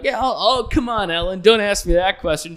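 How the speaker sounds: high giggly protest; playful guest. Retold or imitated. Actress bantering with the host, high playful protest. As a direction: coyly dodge the question. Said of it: "talking to Jennifer Lawrence".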